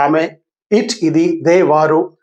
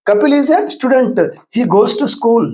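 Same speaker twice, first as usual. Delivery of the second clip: slow dictation; 4 semitones higher, much slower than usual. Shown as a demonstration. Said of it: "example రాశా కదా".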